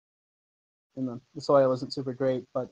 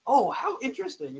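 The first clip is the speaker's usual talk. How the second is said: nerdy half-elf voice; 10 semitones higher than usual. Acted. Half-elf NPC answering.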